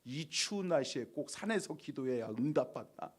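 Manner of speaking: muttered under the breath, soft and sulky; grumbling to himself on the cold mountain; inner grumble. Retold or imitated. Pastor grumbling inwardly on the climb, soft sulky mutter. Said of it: "속으로".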